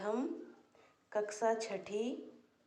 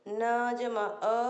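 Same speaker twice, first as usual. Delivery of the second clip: slow spelling; much slower than usual. Shown as a demonstration.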